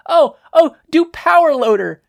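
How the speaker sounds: high, loud eager plea; excited request. Acted. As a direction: beg for the next impression. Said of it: "Mina requested".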